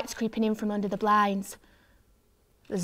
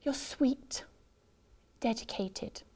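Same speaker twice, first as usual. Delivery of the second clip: whispering; 3 semitones higher, 7 dB quieter, slower than usual. A narrator's reading. Hushed self-consolation.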